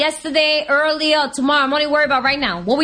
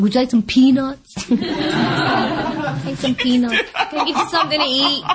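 laughing offer; slower than usual. Retold or imitated. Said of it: "I was like".

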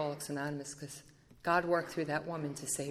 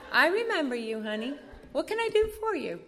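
Val answering; 8 semitones higher than usual. Retold or imitated. Voicing Val answering the phone.

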